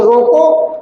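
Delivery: रोको set apart, followed by a brief halt; pause after रोको. Shown as a demonstration. Teacher showing where the comma falls, pause after रोको. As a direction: stop briefly once रोको is said. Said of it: "थोड़ी देर रुक गए".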